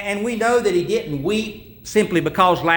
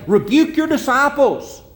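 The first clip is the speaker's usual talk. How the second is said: mock Pharisees; 4 semitones higher than usual. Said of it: "and they say".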